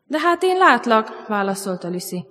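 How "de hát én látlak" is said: high, drawn-out storybook exclamation; slow, pitched-up insistence; lightly acted girl protesting; insistent protest. A narrator's reading. Lucy protests in acted dialogue.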